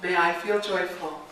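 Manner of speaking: a clear call for the room to repeat; call-and-response prompt; leading a response. Acted. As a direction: lead the line out for the group to echo. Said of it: "I'll say a line and you're gonna repeat".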